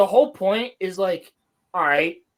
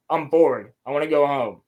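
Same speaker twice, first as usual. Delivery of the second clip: bored; 5 semitones lower than usual. Retold or imitated. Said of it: "He's just like".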